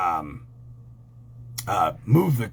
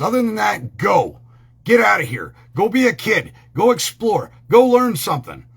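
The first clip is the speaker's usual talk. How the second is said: put-on shooing kids; 6 semitones higher, 4 dB louder than usual.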